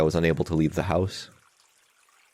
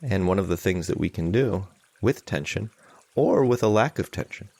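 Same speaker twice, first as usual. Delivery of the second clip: measured meditation guidance with long pauses; guided meditation. Real, not acted. Teacher leading an online group in calming anxiety, guided meditation. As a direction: guide them gently, leaving long silences.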